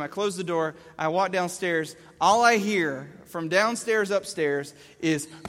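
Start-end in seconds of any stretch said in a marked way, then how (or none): 5.3-5.4 imitated child yelling. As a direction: wail it at full volume from behind a door. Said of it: "he's still yelling".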